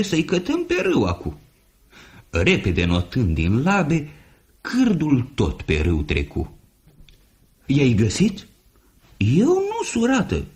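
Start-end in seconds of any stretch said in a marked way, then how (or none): 0.0-1.4 hurried goose call. Acted. Goose urging the flock. 7.7-10.4 very high goose voices; gossiping goose voices; chattering geese. Acted. Geese asking each other.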